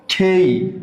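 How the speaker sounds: "খেই" with a sound midway between ক and খ; neither hard ক nor full খ, the middle of the two; letter K between ka and kha. Shown as a demonstration. Teacher showing "খেই" between ক and খ. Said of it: "দুইটার মিডলে হবে".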